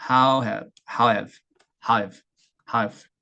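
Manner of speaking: how have drawn out, how falling; slow falling how have. Shown as a demonstration. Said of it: "천천히 해볼게요". (how have를 천천히 내려가며)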